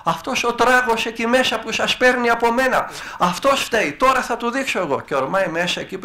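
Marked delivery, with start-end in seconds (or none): 0.0-5.0 demon raging. Retold or imitated. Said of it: "αρχίζει να ουρλιάζει ο άλλος".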